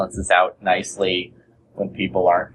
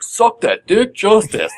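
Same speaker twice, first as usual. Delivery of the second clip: retold office yell; 11 semitones higher, slower than usual. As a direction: yell it across the office at a teammate. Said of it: "like, screamed across".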